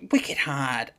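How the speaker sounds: whispered Boston accent warm-up. Shown as a demonstration. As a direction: try out wicked hard in Bostonian. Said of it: "Go on, try it".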